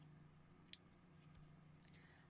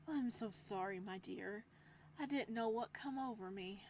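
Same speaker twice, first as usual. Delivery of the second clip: loving apology. Acted. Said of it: "tone of voice turning loving".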